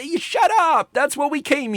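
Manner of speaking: high, loud snap of shut up; mock outburst, high and loud; exasperated shout. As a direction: bark it at the talker in the seat behind. Scolding people who talk during films.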